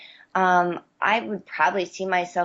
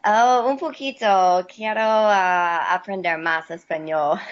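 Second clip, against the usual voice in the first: speaking Spanish. Shown as a demonstration. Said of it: "I have to talk to you in Spanish".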